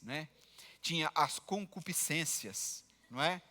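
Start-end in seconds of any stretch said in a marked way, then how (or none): 1.2-2.8 imitating "as concupiscências" sounded out slowly and low; labored reading. Preacher imitates a girl tangled in old words, "as concupiscências" slowly labored. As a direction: pick through "as concupiscências" like a hard word. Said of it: "ela lia e se enrolava com as palavras".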